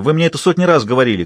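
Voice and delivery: high, fast answering yell; impatient shout. Acted. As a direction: yell back, fed up. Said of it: "крикнула в ответ Кайла". (раздражённый крик в ответ)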